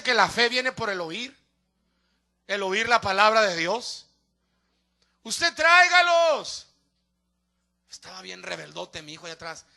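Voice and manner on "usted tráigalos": high, loud, stretched-out command; drawn-out preacher's call; exhorting shout. Real, not acted. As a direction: urge the congregation slowly and forcefully. Preacher exhorts congregation to bring people.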